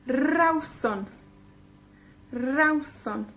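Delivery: Rawson with RAW stressed, rolled R; RAW-son, falling at the end; stress on first syllable. Shown as a demonstration. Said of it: "cae en la penúltima sílaba".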